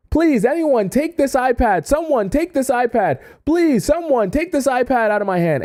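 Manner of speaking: high, pleading street cry; mock yelling. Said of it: "and I'm yelling".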